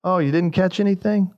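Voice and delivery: half-sarcastic advice to the empty-handed fishermen; mildly sarcastic. Retold or imitated. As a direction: tease lightly, faking sorrow. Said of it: "almost sarcastically".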